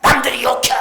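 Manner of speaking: loud, high shouted complaint; mock yell. Preacher mimics a child shouting back at parents, loud and high. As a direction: blurt it out like a sulky teenager. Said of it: "그러지 말고".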